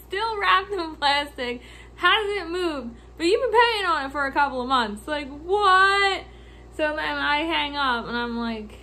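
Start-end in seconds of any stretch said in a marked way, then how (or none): 0.1-6.2 incredulous ranting. Retold or imitated. Laughing disbelief at lady.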